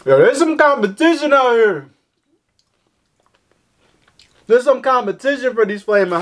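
talking between bites; chewing while talking. Real, not acted. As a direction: mouth partly full of snack. Seen 2: Hand at mouth; closed-lip chewing through most of the clip.

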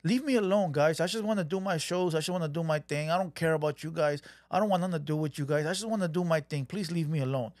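a touch of a frightened loner; scared whiny plea. Retold or imitated. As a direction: beg them to just go away. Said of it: "It sounds like he's scared".

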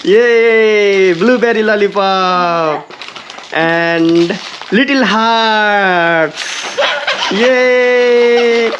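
high, slow, excited coaxing; showing off treats. Real, not acted. Dad showing his daughter the lollipops, high and excited. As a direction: dangle the treats in a bright high voice.

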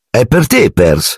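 high-pitched mock-solemn explanation; very serious. A narrator's reading. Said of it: "disse George serissimo".

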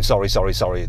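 rapid string of polite sorries; a hint of an apologetic Brit, lightly done; mock British apologising. Explaining British habits to the viewer, apologetic sorry. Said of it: "It's very British to be going".

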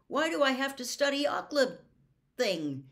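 loud, high outburst; blurted out. A narrator's reading. Boy questioning his teacher, blurted out. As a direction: burst out with the question. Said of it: "he blurted out".

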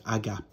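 agape cut short to "agap", final vowel dropped. Shown as a demonstration. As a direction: say agape as two syllables, "agap". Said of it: "depending on how you pronounce it".

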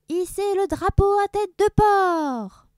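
high, slow, loud command; shouted order. Acted. Captain commands his crew, bellowing. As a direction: roar it across the deck.

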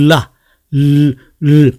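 "라, 르" as a long L with the tongue tip pressed up; slow, drawn-out L on "라, 르", demonstrated alone; held L sound. Shown as a demonstration. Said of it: "혀 끝을 위에 붙여서".

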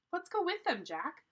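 high, loud, eager plea; eager urging. A narrator's reading. Annie wants Jack to follow the ninjas, eager. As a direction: urge him along excitedly.

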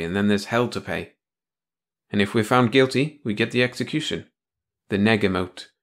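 lightly voiced bitter man; dry, cynical explaining; Tony, bitter. Tony explains negamoting to her.

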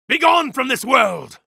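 furious god shouting; shouted banishment. Acted. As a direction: cast the enemy out. Attack shout.

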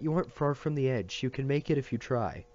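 put-on encouraging boy. A narrator's reading. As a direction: coax him on, boyish. Chacho urging Matt on.

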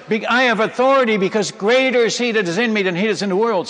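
fast, loud shouted verse; retold shout. Shouting scripture at the jungle noise, fast and loud. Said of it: "and I shouted".

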